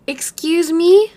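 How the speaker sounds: high, drawn-out, rising question; stunned disbelief. Real, not acted. Streamer reacting to a viewer's big donation, stunned disbelief. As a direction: stretch it out high in real astonishment.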